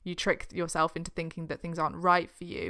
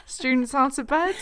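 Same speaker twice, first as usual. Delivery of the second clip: Filch voice; 5 semitones higher, 4 dB louder than usual. Retold or imitated. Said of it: "like Filch".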